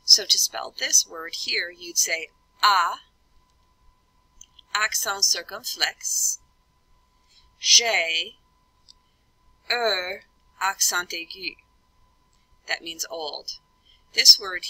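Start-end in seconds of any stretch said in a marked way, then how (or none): 2.6-11.5 French letter names, one at a time with long pauses; teacher dictating French letters, spaced out; French spelling aloud. Shown as a demonstration. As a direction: spell out "A, accent circumflex, G, E, accent aigu" in French. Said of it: "you say the letter and then".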